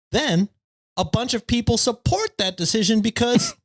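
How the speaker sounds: smug, preachy internet neckbeard. Pretend. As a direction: read it like a smug forum poster. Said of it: "been a while since I've done the neckbeard voice".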